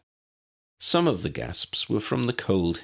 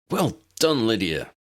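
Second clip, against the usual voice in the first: Harry, relieved; 3 semitones higher than usual. Acted. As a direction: voice young Harry, breathless praise. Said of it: "Harry said as he joined them".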